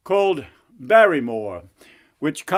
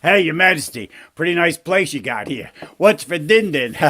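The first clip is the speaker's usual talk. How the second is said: cheeky frog. Acted. Frog greets king at the table, cheeky frog voice. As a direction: play a brash streetwise frog.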